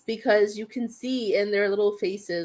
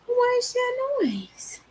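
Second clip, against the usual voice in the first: whispering; 13 semitones higher, slower than usual. Real, not acted. Whispering to the dog.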